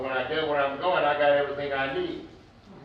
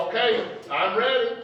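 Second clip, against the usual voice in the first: a lightly voiced God welcoming back; God speaking; 4 semitones higher than usual. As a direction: voice God offering a hand.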